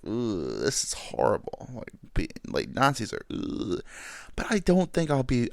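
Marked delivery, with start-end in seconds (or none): 0.1-3.8 timid grumble. Pretend. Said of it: "I would be like".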